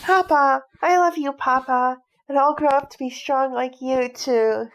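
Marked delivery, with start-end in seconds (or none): 0.0-3.5 higher, louder happy cry; joyful shout. Acted. Son happily shouts his love to his father. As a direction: shout your love out to him.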